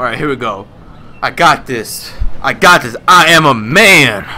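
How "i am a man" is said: mock bravado. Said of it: "not actually".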